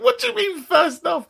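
high-pitched baffled self-questioning; mock incredulity. Real, not acted. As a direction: query your own words in disbelief. Mocks own choice of opener.

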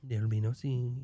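put-on lightly done Mexican accent; a casual attempt at a Mexican accent. Podcaster voicing Marcy refusing visitors, light Mexican accent. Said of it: "like, a Mexican accent sometimes".

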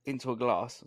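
talking through a hiccup; hiccuping mid sentence. Real, not acted. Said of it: "Sorry, I hiccuped".

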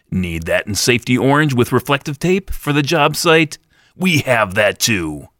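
upbeat infomercial pitchman voice; chipper 1950s ad. Acted. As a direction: sell it like an old TV commercial. Parody infomercial for head cone.

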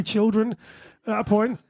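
rising tone on "point"; uptalk. Real, not acted. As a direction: let "point" lift at the end like a question. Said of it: "That's five up talks".

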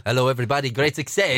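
put-on low Kazakh-accent catchphrase; lightly voiced Borat greeting; Borat impression. Host greets listeners, lightly doing Borat's accent. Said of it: "Borat, 'cause you keep saying".

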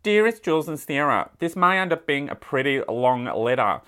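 letter read in a put-on Australian accent; playful Aussie accent. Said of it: "read this in my Australian accent".

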